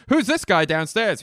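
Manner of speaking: high, loud alarmed question; hammed-up shout from the bridge; frantic movie impression. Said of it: "here's my impression of".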